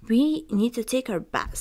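lightly voiced spoiled sister; a hint of a whiny stepsister. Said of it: "said Anastasia".

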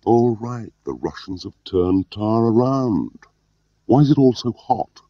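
high-pitched, indignant comeback; feigned resentment. A narrator's reading. Gwilym hits back at Allaline's accusations, feigned resentment. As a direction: hit back as if put out. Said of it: "hit back with feigned resentment".

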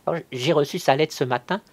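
high, loud, hasty-sounding excuse; anxious lying. A narrator's reading. Cousin covering her lie, anxious and high.

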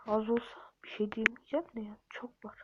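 whispered grumble; hushed complaint to himself. Real, not acted. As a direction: breathe it under your breath. Muttering frustration while playing.

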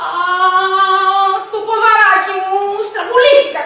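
whining, sing-song moan; woman hurts her foot in the dark, whimpering; in pain. Acted. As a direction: moan over the twisted ankle. Twists her ankle, complaining.

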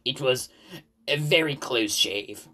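slow, weighty delivery with pauses; impressive pause. Acted. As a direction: pause before "a very close shave", then stretch it slowly. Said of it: "paused impressively".

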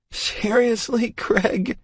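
high, incredulous teasing; teasing wife. Acted. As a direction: roll your eyes at him fondly. Laughing wife teases.

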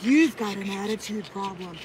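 slow, loud scolding; mock scolding. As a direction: scold him, dragging each word. Mock quarrel with husband.

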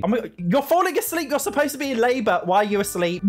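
high, giggly exasperation at the horse; real amused squeals; laughing disbelief. Real, not acted. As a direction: laugh while pleading. Horse asleep during labor.

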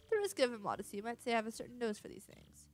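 pompous detective voice. Acted. Detective addresses passengers.

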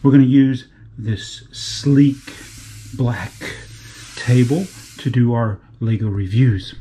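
low, slow, punchy presenter delivery; presenter intro. Acted. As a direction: announce it low with emphatic pauses.

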